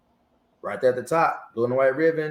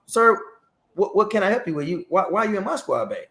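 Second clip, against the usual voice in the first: flustered alarm; 7 semitones higher than usual. Retold or imitated. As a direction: blurt it out caught off guard. Flustered sergeant questioning general.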